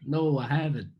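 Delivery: brief put-on American accent. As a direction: answer in an assumed American voice. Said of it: "in an American accent".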